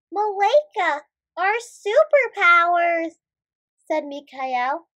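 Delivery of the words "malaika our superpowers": alarmed. Acted. Hero finds powers gone.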